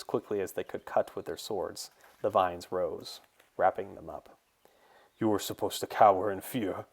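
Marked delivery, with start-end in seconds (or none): 5.2-6.9 mildly raised villain's outcry; a touch of bitter outrage; angry cry. A narrator's reading. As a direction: cry it out at the enemy, enraged. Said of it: "Kualachi cried".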